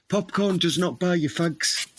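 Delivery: imitating nasa. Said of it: "as nasa keeps on telling me".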